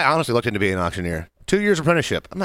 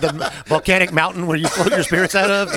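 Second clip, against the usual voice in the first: laughing through words; 2 semitones higher than usual. Real, not acted. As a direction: chuckle through it. Laughing while speaking.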